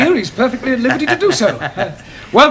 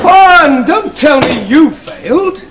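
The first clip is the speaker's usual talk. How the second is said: exasperated call; 4 semitones higher, 4 dB louder, slower than usual. Acted. Teacher calls out, exasperated.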